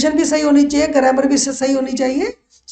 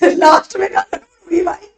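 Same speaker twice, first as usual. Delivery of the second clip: higher-pitched, laughing mock bewilderment; amused disbelief; 5 semitones higher, 4 dB louder than usual. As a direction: laugh through a puzzled litigant's question. Voices baffled parties, laughing. (हँसते हुए बनावटी हैरानी)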